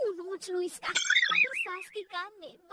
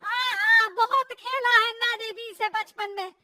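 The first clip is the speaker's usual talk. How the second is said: loud, emphatic mother-in-law; mildly irritated; 7 dB louder than usual. Acted. Mother-in-law answers she played it as child, irritated. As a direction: retort loudly at usual pitch. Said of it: "सास को बहू की इस बात पर गुस्सा".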